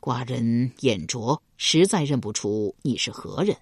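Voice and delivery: a ruler politely puzzled, taking his time; 低沉缓慢的君王口吻. Acted. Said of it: "齐桓公轻轻地摇了摇头道".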